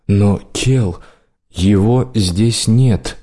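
slow, cold, stone-hard king; stony voice. Acted. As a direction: cut him off with a stony voice. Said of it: "отрезал король каменным голосом".

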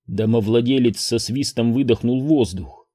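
plain reading voice

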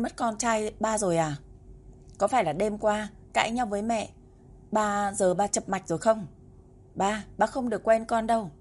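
a touch of fake crying, scolding his dad; tearful child. Boy pretending his father forgot him, mildly tearful. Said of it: "chứa đựng tiếng khóc lóc".

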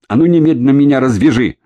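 high, loud, fast angry order; furious demand. A narrator's reading. Orlova orders Kremnyov to untie her, furiously. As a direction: bark the order in fury. Tied woman demands release.

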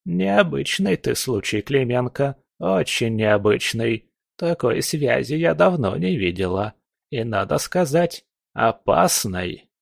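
a lightly voiced old witch; old crone voice. Old fortune teller speaks.

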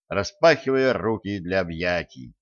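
usual speaking voice

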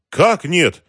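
high, loud, outraged question; choking with anger. A narrator's reading. Boss told the truck is missing, choking with anger. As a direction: nearly choke on your fury. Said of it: "едва не задохнулся от гнева".

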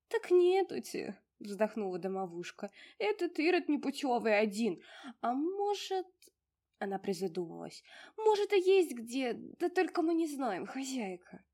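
high, loud fussy house-spirit voice; a tiny old domovushka fussing over her mistress; high bustling little house spirit. Acted. Domovushka sighing answer.

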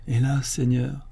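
slow, sorry servant; a rueful, drawn-out alas; piteous. Acted. Majordomo who never tasted the wine answers his master, piteously. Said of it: "d'un air piteux".

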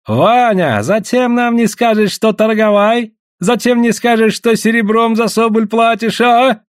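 high, drawn-out wail of reproach; impassioned complaint in a high put-on voice; heartfelt exclamation. A narrator's reading. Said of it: "с чувством восклицал Данда".

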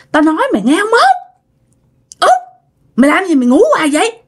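high, urgent voice calling out to a sleeping sister; the dead aunt Bảy wakes the mother, high and urgent. Retold or imitated. Dì Bảy calls her sleeping sister Út, high and urgent. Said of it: "mẹ lại nghe tiếng dì Bảy nữa".

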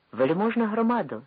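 loud, high call to the assembly; mighty voice. A narrator's reading. Sagaidachny hails the Cossack assembly in a loud, high voice. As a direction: hail the crowd with a mighty voice. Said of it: "його могутній голос".

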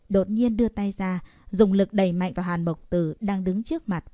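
plain reading voice

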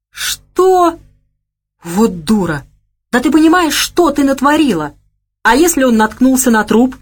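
loud, high angry shouting; he yells at her in rage; yelling. A narrator's reading. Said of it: "начал кричать на неё". (крик в гневе)

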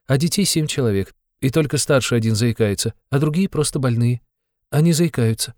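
put-on eager, timid girl explaining her landlords; Sonya, timid young girl. A narrator's reading. A timid girl telling a visitor about her neighbours, eager.

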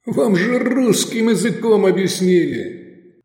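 high, slow, taunting scolding; mocking reproach. A narrator's reading. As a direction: scold them as if they were dim. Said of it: "попенял насмешливый голос".

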